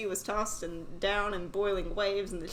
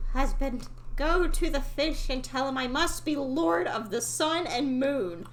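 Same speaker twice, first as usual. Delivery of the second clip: mild anger; 5 semitones higher than usual. Acted. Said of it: "she was very angry".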